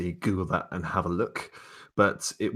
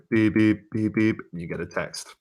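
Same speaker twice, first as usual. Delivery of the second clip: louder mock text alert; imitated phone beeps; 3 semitones higher, 6 dB louder than usual. Game master announcing a text to players, mimicked beeping. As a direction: voice a run of electronic beeps.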